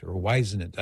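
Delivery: "Whisenant" with first syllable like "wise"; alternative name pronunciation. Shown as a demonstration. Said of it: "I don't know how he pronounced".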